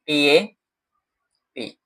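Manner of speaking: letter-by-letter spelling of tap as टी ए पी; spelled out letter by letter. Shown as a demonstration. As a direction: spell टी ए पी with a pause between each letter. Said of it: "टैप".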